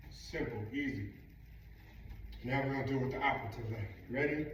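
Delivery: winded, short of breath. Real, not acted. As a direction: catch your breath between words. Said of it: "don't know why I'm so winded".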